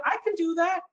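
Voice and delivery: mock grave can-do. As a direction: hit "can" like a pundit who'll say anything. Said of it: "You want me to tell you the economy is terrible".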